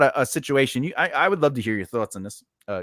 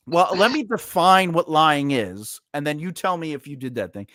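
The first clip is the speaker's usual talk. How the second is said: silent rage. Retold or imitated. Boss defining lying to a worker, raging in silence. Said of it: "I was raging in silence".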